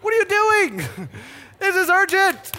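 very high, loud, slow incredulous cry; exasperated disbelief. Retold or imitated. Husband finding wife vacuuming in labor, exasperated shout. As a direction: stop her, she's vacuuming. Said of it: "she is vacuuming".

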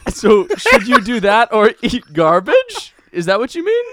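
high, loud call to a spirit. Acted. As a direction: shout up to the ghost. Shouting to the ghost.

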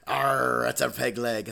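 lightly voiced pirate with a punched "Arr"; a hint of hammed-up pirate growl. Joke teller answers as a pirate at a table, lightly voiced pirate. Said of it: "there was a real life pirate".

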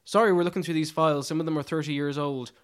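slow, deadpan line reading like a weary diplomat; lightly imitating the actor's dry delivery; dry British wit. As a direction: give the lines a dry, unhurried British deadpan. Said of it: "he can sell lines like".

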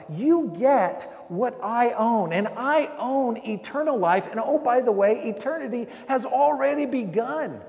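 rising preacher's voicing of Jesus, slow at times. Preacher voicing Jesus at the bread and cup, building. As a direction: offer it like Jesus lifting the cup. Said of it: "Jesus is saying".

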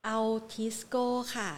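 sneakily soft. Real, not acted. Host sneaks in a stock outside the expert's picks, very softly. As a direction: slip it in under your voice, slowly. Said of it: "แอบพูดเบาๆ เพราะว่าไม่ได้อยู่ในกลุ่มที่พี่นิพนธ์แนะนำ".

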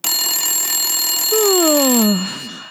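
groggy long sigh; sleepy sigh. Acted. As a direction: woken sigh. Woken by phone at night.

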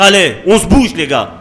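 rally the group like an impatient leader; imitating himself spurring people on; urging on. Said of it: "gesticuler pour vous dire".

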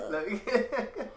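slow, drawn-out laughing order; mock menu order. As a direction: stretch it out like reading a menu. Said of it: "like he was ordering something off the menu".

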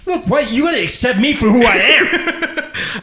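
put-on high pleading kid; whiny little boy to mom.

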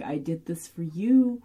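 a hint of a small child, slowing down; childlike pleading. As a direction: ask like a hurt child hoping to be good enough. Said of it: "this sort of childlike".

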